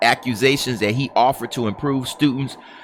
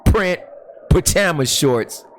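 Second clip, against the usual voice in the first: laughing through words; 5 semitones higher than usual. Real, not acted. Laughing repeat of pajamas line.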